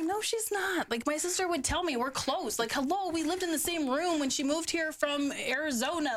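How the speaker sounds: high, insistent mock denial; retold protest. Telling friends how they defended a sister, high insistent protest.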